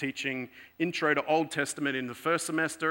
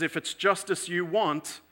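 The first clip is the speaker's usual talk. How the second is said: stern professor; 4 semitones higher, 3 dB louder than usual. Retold or imitated. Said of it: "So the professor says".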